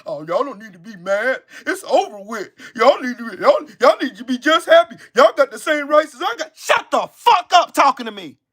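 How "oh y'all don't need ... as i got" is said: mocking dismissive white voice. Mocking white people who tell Black people to get over slavery, sneering. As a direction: play the smug dismisser, with a laugh. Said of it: "you dumb fucks come up here".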